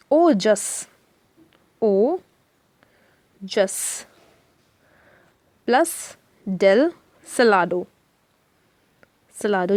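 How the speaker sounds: ओजस, ओजस, then plus डेल सिलाडो, each part spoken very slowly with long pauses between; spelling out ओजस डेल सिलाडो piece by piece for students; broken into parts. Shown as a demonstration. Teacher breaking the volcano name slowly for students. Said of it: "ये मैं break करके बता रही हूँ".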